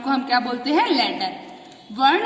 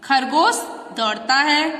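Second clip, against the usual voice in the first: reading aloud. Shown as a demonstration. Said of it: "दो sentence लिखे हुए हैं नीचे।".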